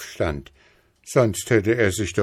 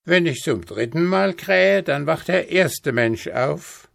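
higher-pitched rooster answer; rufender Hahn; 9 semitones higher than usual. A narrator's reading. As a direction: call it down from the tower. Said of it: "rief der goldene Hahn herunter". (hoch herunterrufender Hahn)

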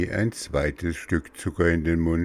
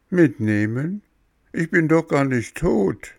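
put-on high, startled child's protest; acted boyish alarm; 10 semitones higher, 5 dB louder than usual. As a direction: protest in disbelief, pitched high. Bengele alarmed by hares.

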